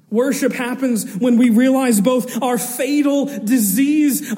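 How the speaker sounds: rising, forceful preacher's voice; impassioned preaching. Acted. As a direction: build the point with fervor.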